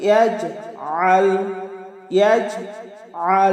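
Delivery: ইয়াজআল with the ain pressed in the throat, slow; throaty ain. Shown as a demonstration. Teacher demonstrating ইয়াজআল with a true ain. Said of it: "আইনের মতোই উচ্চারণ করতে হবে".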